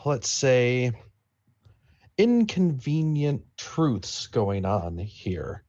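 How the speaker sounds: drawn out, with deliberate pauses; measured veiled threat. Acted. Player hinting at danger to hostile strangers, slow veiled threat. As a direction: pick each word slowly and carefully.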